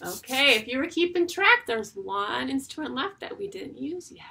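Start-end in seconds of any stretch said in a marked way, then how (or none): 1.7-4.2 secretive whisper; teacher hinting at the last instrument. Shown as a demonstration. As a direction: whisper it like a clue. Whispered hint to kids.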